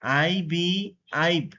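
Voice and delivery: name the letters আইবি, pause, then blend as আইব with an "eye" vowel; teacher's drill: আইবি, then আইব rhyming with "vibe"; long-i phonics demo. Shown as a demonstration. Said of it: "উচ্চারণ যদি আই হয়".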